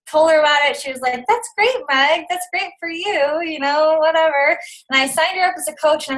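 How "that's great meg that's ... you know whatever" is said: dismissive sister. Retold or imitated. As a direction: imitate a sister politely waving it away. Sister brushing off the offer, retold.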